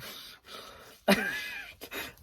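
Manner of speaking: surprised airy giggle; startled high laugh; high breathy laugh. Real, not acted. Surprised by interruption.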